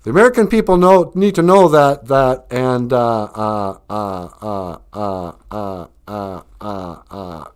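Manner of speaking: confident speech stalling into a trail of uhs; mock politician losing the thread, running down; stuttering Biden impression. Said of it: "he'll start to stutter".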